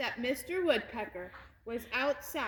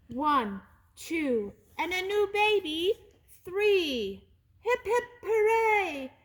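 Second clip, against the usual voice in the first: rising, louder happy count into a cheer; 6 semitones higher, 6 dB louder than usual. Acted. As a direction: burst out proudly. Parakeets announce baby, cheer.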